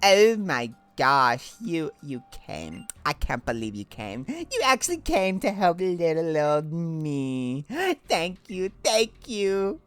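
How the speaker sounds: overwhelmed with gratitude; gushing shy girl. Acted. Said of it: "change Lily's voice".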